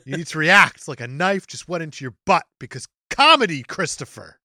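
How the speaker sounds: exasperated director, punched key words; mock upset. Telling off the actor over a cheap gag, mock upset. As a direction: scold an actor, landing hard on the reason. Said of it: "You sound upset".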